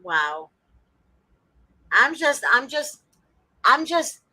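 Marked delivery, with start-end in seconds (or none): 1.9-4.2 amazed. Real, not acted. Stammering amazement at the lawyer.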